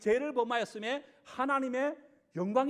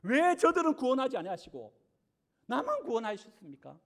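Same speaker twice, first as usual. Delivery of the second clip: raised, demanding complaint; a saved believer challenging God's fairness; mock protest to God; 2 semitones higher than usual. Believer confronting God, indignant mock protest. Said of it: "앞에 와서 따지는 거예요".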